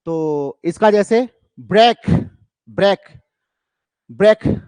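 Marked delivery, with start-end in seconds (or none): 1.6-4.6 "ब्रेक" punched loud on each repeat; equal successive stresses. Shown as a demonstration. Teacher giving a spondee example to students, evenly stressed loud beats. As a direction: hit every "ब्रेक" hard, with pauses between. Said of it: "ये दो मिल गए लगातार".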